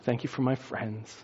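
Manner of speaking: soft, low table grace; blessing prayer. Acted. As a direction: pray quietly and gently over the food. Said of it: "blesses it".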